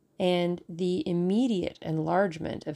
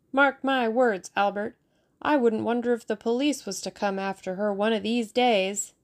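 imitating the maid; 4 semitones higher, 3 dB louder than usual. Boy quoting the parlour maid.

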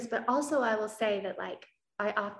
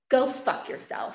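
angry retort; 4 semitones higher, 5 dB louder, slower than usual. Retold or imitated. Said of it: "I can remember being that angry".

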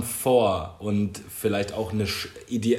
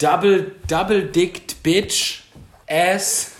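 loud mock announcer; 6 semitones higher, 6 dB louder, much slower than usual. Reading porn categories aloud.

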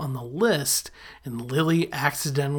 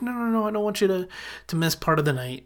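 quick, higher-pitched mock protest; retold hurried protest; 5 semitones higher, faster than usual. Lily stopping Marshall from coming along, retold hurried protest. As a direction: rattle off the no's, imitating her.

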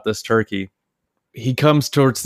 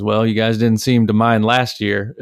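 deadpan. Retold or imitated. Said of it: "just deadpan".

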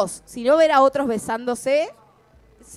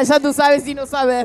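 put-on Caribbean accent. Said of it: "Tengo miedo de cruzarme con alguien que me diga".

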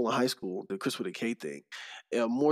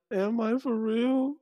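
slow, high disbelieving question; can't believe it; incredulous; 10 semitones higher, slower than usual. Retold or imitated. Incredulous self-doubt.

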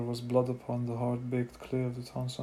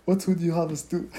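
loud demand; 5 semitones higher, 8 dB louder than usual. A narrator's reading. Bearded man demands action.

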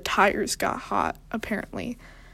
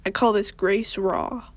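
low vocal fry. Shown as a demonstration. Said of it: "go back down to my".

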